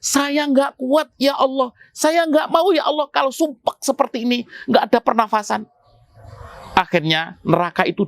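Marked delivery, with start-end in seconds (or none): 0.0-5.6 a touch of anguished begging, mildly acted; mock desperate cry. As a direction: cry out to God as if suffocating. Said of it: "Akhirnya dia teriak-teriak".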